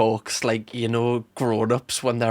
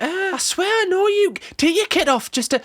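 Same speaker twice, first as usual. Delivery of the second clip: higher-pitched mock tenant voice; imitating puzzled tenants. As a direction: play a tenant half-recognising someone. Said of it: "Some of the tenants are gonna be like".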